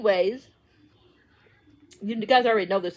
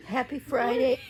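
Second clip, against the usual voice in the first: laughing; 3 semitones higher than usual. Real, not acted. Greeting after laughing fit.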